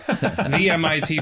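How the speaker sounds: said through a light laugh, slowed; chuckling as he repeats it; amused, laughing aside. Real, not acted. Host laughs at the MIT joke.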